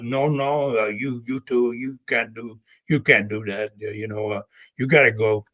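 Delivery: a hint of Dutch accent, low and gruff; lightly imitating a Dutch wrestler turning him away. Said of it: "he touched that Dutch accent".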